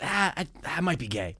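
soft, offhand mock confession; joking confession. Retelling his hammered friend's confession, joking. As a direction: toss it off softly as a joke. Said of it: "he was using that as a joke".

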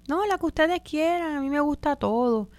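high, small, accommodating voice; acted meek go-along reply; passive people-pleaser. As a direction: give way sweetly in a high little voice. Voicing the passive person's answer.

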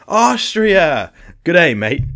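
loud, high burst of goofy delight; hammed-up comic film-quote exclamation; Jim Carrey. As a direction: blurt it out like a dim movie goof. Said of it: "It sounds like Jim Carrey".

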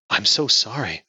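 gentle comforting apology; sympathetic. Acted. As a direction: soothe a grieving friend. Friend comforts grieving woman.

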